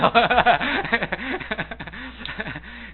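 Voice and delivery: long laugh at a memory; laughter. Real, not acted. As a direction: break into a sustained laugh. Laughs at own childhood memory.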